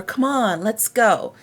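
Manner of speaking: upbeat "Come on, let's go"; encouraging. Shown as a demonstration. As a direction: spur a friend on. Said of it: "it can be encouraging".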